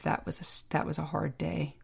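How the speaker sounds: quiet, choked-up catch on a hard memory; real emotion, words catching; emotional, breaking voice. Real, not acted. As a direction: let the voice falter and drop soft. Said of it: "my voice tremble".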